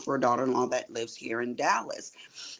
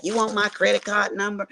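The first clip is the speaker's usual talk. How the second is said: lightly imitated country accent, pitched up; a touch of country accent, mimicked; 6 semitones higher than usual. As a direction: quote a friend in a higher country accent. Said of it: "her little country accent".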